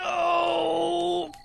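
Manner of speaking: high yelp. Acted. High shouted denial.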